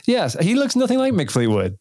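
high-pitched, fresh out of real laughter; amused disbelief. Real, not acted. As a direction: crack up at an absurd suggestion. Laughing at absurd casting suggestion.

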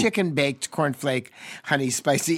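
recipe name said in reverse order; backwards speech. Shown as a demonstration. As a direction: read the words back to front. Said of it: "Try to say that backwards".

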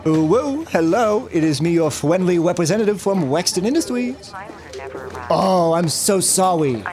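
lightly put-on baby talk, W for R and L. Phone rep greeting a customer in cutesy baby talk. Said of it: "supposed to be like a baby".

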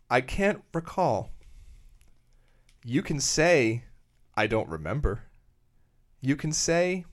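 slow, earnest poetry reading; solemn recital with long pauses; earnest poem voice. Shown as a demonstration. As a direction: read it as a heartfelt poem, savouring each pause. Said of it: "This will be read very earnestly".

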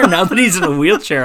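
real laughter breaking into the words; laughing while talking. Real, not acted. Cracking up at own dark joke.

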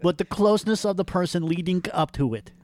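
put-on old Jewish woman. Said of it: "my impression of Robert is the same as an old Jewish woman".

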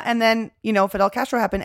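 ordinary delivery

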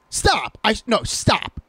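high-pitched mock exasperation; imitated protest. Friend imitating his cohost refusing the prank call, high and exasperated.

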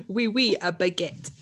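light mock French accent. Showing co-host an accent, mock French accent. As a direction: put on a jokey French accent. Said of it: "you can do a French accent".

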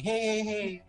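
high, drawn-out goblin call; goblin reaction. Acted. Goblin reacting to its companion, high goblin voice. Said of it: "reaction to the other goblin going".

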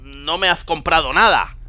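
put-on high, nagging wife with a Spain accent; acento español. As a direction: complain to a husband in a Castilian accent. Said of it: "el chiste ese con acento español". (esposa que se queja con acento de España)

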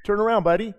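playful mock tough guy with a laugh; mock confrontational. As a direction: tease the old hot-headed self calling a driver out. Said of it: "the old him wanted to say".

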